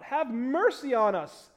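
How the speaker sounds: understated cry from the pulpit; mild crying out. Acted. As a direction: read it as a measured cry for mercy. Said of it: "crying out".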